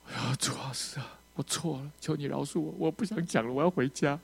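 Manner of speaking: mock-sobbing plea to be forgiven; breaking down. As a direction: whimper an apology to God as in a retold breakdown. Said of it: "我整个人崩溃了， 一直哭啊".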